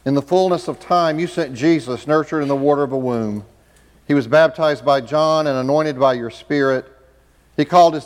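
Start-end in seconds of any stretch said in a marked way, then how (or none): none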